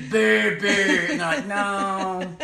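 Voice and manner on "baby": mock German baby. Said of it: "having to go".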